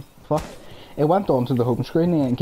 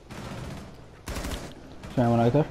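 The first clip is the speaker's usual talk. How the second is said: whispering; 6 dB quieter, much slower than usual. Real, not acted. Sneaking in the game.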